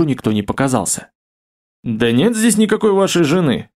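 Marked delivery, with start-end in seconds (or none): 1.8-3.7 indignant. Acted. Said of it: "возмутился Леонард".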